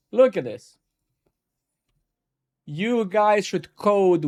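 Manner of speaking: wag a finger at the viewers, hammed-up teacher; mock preachy lecturer.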